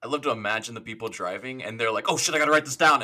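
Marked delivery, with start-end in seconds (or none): 2.1-3.0 slightly higher, laughing mock panic; mock alarm. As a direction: voice a flustered driver with a laugh. Imagines panicked drivers noting a link.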